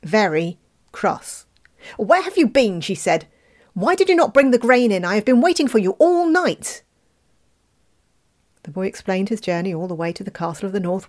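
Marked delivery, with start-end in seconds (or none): 2.0-2.8 loud, higher scolding; angry mother. A narrator's reading. 3.7-6.8 loud, higher scolding; angry mother. A narrator's reading.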